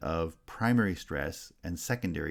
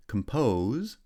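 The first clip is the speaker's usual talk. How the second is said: "Compose" with the second syllable strong; second-syllable stress; 3 semitones higher, 4 dB louder than usual. Shown as a demonstration. Teacher showing stress patterns, second-syllable stress on "Compose". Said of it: "has stress on the second syllable".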